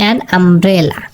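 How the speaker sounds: "an umbrella" drawn out very slowly, each sound clear; slow demo. Shown as a demonstration. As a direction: stretch out "an umbrella" so the আ sound stands out. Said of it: "এখানে উচ্চারণটা হয়েছে আ". (খুব ধীরে "an umbrella" উচ্চারণ)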